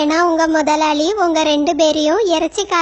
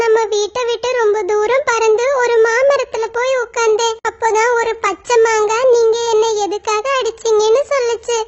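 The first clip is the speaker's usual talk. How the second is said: put-on higher child crow, pleading; a son begging his mother's forgiveness; little crow apologising; sorry little crow; 4 semitones higher than usual.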